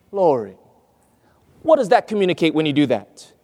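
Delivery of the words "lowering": LOWERING dropped low, falling; lowered pitch. Shown as a demonstration. Preacher showing how pitch is lowered, low falling voice. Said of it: "and the lowering".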